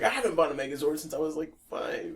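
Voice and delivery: fast. Retold or imitated. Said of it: "most people would be like".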